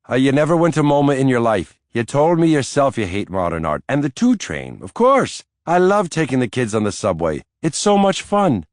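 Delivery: high, loud mocking disbelief; teasing disbelief. A narrator's reading. Irish nanny teasing Mike about the subway, loud mocking disbelief. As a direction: needle him for his tall claims.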